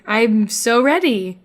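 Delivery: retry sounding eager. Acted. Correcting herself after being called fake, mild eagerness. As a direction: say it again like you mean it. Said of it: "you just sound real sarcastic right now".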